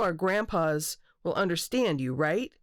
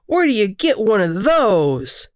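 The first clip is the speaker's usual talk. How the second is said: put-on higher-pitched, impressed child; amazed exclamation; 5 semitones higher, 11 dB louder, slower than usual. A narrator's reading. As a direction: exclaim in wide-eyed wonder, pitch swooping. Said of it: "Peyton exclaims".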